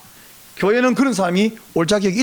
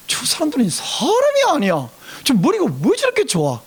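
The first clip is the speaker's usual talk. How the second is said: higher, incredulous marveling; amazed exclamation; 5 semitones higher than usual. Retold or imitated. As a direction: marvel with big swoops in pitch. Marvels at elite classmates' brains. (감탄하며 기막혀하는 말투)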